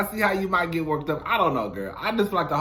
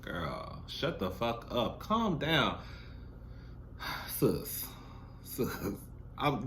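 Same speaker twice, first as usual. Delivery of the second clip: much softer, lower calming voice; mock soothing; 10 semitones lower, 8 dB quieter than usual. Vlogger pretends to calm the screaming girl, soft and low. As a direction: hush her down like a fake big sister.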